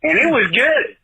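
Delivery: a hint of a put-on Southern accent all through; fake Southern accent. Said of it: "that's a totally fake accent".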